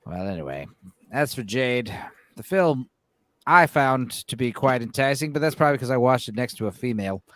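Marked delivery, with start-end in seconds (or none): 0.0-5.3 sexy voice. Pretend. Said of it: "do my sexy voice".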